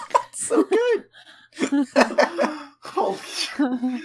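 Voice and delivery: high, laughing through the words; can't stop laughing. Real, not acted. Laughing at the pun.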